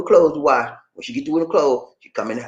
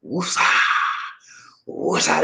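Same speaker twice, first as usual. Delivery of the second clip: calming breath; 4 dB quieter, slower than usual. Real, not acted. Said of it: "That's my sister said".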